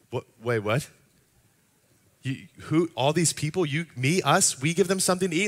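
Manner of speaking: the disciples can't believe what they heard; "Wait, what? We give them something to eat?" rising in mock shock; incredulous disbelief. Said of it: "respond in somewhat of a sarcastic way".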